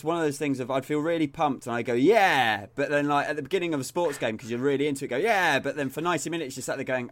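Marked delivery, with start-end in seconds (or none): 1.9-2.7 loud excited cheer; pumped-up yell. Retold or imitated. Pumped fan cheering at game. 5.2-5.6 loud excited cheer; pumped-up yell. Retold or imitated. Cheering at start of game.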